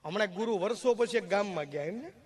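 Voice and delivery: normal talking voice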